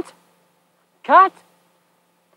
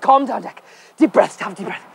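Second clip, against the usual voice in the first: calming self; 3 semitones lower than usual. Real, not acted.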